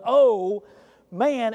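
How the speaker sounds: "oh" punched loud, pause, then "man" up high; emphatic oh man. Shown as a demonstration. Preacher showing the congregation the emphatic address. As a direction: lean hard on "oh", hold, then "man". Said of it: "it's emphatic".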